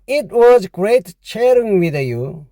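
very slow, careful English; slow model sentence. Shown as a demonstration. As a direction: read it slowly to copy. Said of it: "영어로 하면요".

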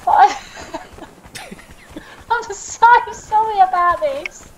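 high, slow apology through laughter; laughing apology. Real, not acted. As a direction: apologise helplessly while giggling. Laughs while apologising for game mishap.

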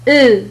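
"أو" said loud as a rounded French O; teacher modelling "أو"; French sound demo. Shown as a demonstration. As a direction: model "أو" for students. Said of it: "فهي تنطق".

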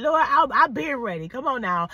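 fervent prayer. Retold or imitated. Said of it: "I was like".

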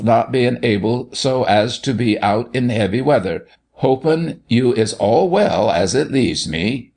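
measured recital, slowing at the sign-off; reading a letter aloud. A narrator's reading. Doctor reading Santa's letter aloud, deliberate recital. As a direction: read out a rustic note deliberately. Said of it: "as he read it".

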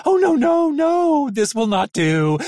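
high, loud panicked cries. A narrator's reading. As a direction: panic like a terrified little robot.

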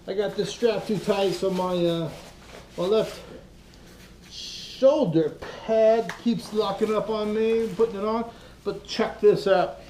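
muffled under a full-face helmet; talking through a closed visor; inside a helmet. Real, not acted. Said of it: "I can't see shit in this helmet".

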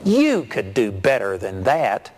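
slow mock taunt with a punched YOU; imitated sarcasm. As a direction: needle a rival, drawing the words out. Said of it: "he said real sarcastically".

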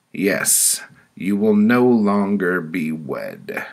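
loud, high-pitched sentencing; committee woman. Acted. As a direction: announce the next penalty as the judging woman. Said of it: "A woman with white curly hair spoke".

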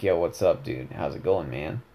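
low, soft monotone with little emphasis; Rice. Shown as a demonstration. Gamer showing his character's tone, low monotone. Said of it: "it's like this".

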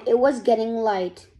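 usual speaking voice

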